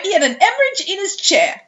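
high, laughing repeat; giggling through the line. Real, not acted.

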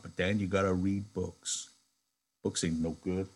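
calm him with soft words; gently. Acted. Crooks gently soothing the angry Lenny. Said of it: "Crooks said gently".

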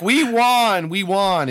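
high, loud victory whoop; mock triumphant cheer. Podcaster voicing Americans after a short war, mock cheering. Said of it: "we were like".

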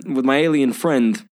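lightly put-on New Yorker impression; a hint of mock tough-guy accent; Christopher Walken. Riffing on the actor's odd accent, lightly mimicked. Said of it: "like a young Christopher Walken".

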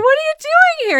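very high squeal of surprise; delighted surprise. Retold or imitated. Bumping into the older woman, squealing surprise. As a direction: squeal it at an unexpected friend.

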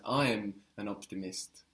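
I given the emphasis in "I am an optimist"; "I" as the prominent word; stress on I. Shown as a demonstration. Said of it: "if you wanted to emphasize".

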